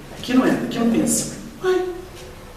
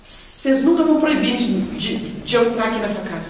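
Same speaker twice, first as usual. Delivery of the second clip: defiant lady quoted; 2 semitones higher than usual. Retold or imitated. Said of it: "Ela virou pra gente e falou assim".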